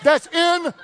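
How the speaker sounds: can't believe it's scripture; incredulous. Real, not acted. Pastor stunned by the verse, laughing in disbelief. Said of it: "disbelief at scripture".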